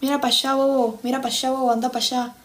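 imitated rioplatense Spanish; Argentine accent. Trying Argentine catchphrases on the chat, Argentine accent. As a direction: play at sounding Argentine. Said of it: "el de Che, boludo".

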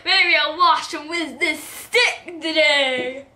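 put-on slow drawn-out old grandpa; hammy grandpa talking to his boy. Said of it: "I'm gonna do a grandpa voice".

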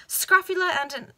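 Scrofula blurted high and loud, then cut off; startled high stumble. Real, not acted. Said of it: "oh, here we go".

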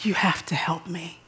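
softly whispered plea to the Lord; a desperate prayer breathed out. Retold or imitated. New wife pleading with God in a hotel room, whispered. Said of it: "I just threw up this prayer".

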